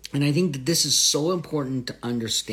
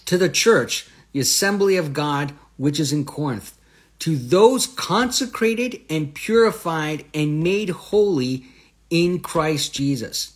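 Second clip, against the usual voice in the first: raised, deliberate verse reading; emphatic scripture reading; 3 semitones higher, 4 dB louder than usual. Real, not acted. Teacher reading scripture to listeners, emphatic reading. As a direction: read the verse out with weight.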